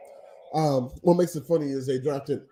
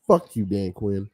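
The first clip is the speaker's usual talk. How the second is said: mock dedication; 9 semitones lower than usual. Real, not acted. Cursing at a rival coach.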